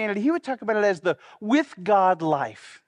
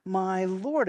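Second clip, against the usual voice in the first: slow and weighty; much slower than usual. Shown as a demonstration. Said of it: "this one is, is crucial".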